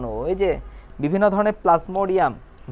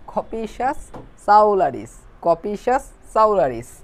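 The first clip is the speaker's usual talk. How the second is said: drilled slowly; 2 semitones higher, 3 dB louder, much slower than usual. Shown as a demonstration. Drilling the hard name.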